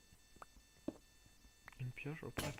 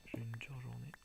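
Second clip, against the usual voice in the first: tired soft whisper; library whisper; 4 dB quieter than usual. Real, not acted. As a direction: whisper like you're exhausted. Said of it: "je parle tout bas".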